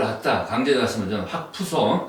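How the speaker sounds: folksy Jeolla dialect line. Acted. Guest explains Gangjin's program name with a pun, Jeolla dialect. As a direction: put on a Jeolla regional accent. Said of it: "그 전라도 사투리로".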